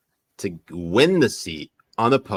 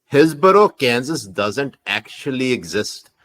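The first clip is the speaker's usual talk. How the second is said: put-on Pakistani accent. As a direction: spin a theory in a Pakistani accent. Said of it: "Pakistani accent".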